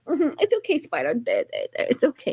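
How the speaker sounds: gentle soothing to a spider; comforting the spider. Retold or imitated. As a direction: coo softly as to a scared pet. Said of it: "I'm like".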